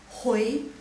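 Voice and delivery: HOI blended as hu-e-i, rising; second tone. Shown as a demonstration. Teacher blending the sounds for class, rising second tone. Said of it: "Kasih nadanya kedua".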